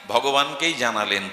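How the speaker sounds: normal talking voice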